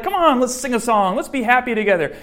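brightly chirpy well-meaning friend, hammed up; cheerful and happy. Pushing a grieving person to sing along, mock cheerful. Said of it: "you come along all cheerful and happy".

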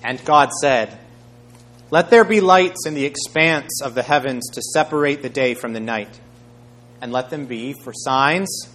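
measured, proclaiming Bible reading; scripture reading. A narrator's reading. Preacher reading the creation history, measured and proclaiming. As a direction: proclaim the verses with weighty emphasis. Reads Genesis aloud.

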